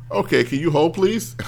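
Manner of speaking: lightly mimicked phone agent; acted support agent. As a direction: lift it high at the end, like an agent asking. Voices the support agent stalling.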